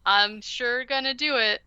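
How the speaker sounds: a loud, sarcastic "oh yep"; sarcastic agreement. Retold or imitated. Boy sarcastically brushing off his parents' order, loud and mocking. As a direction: roll your eyes and agree loudly.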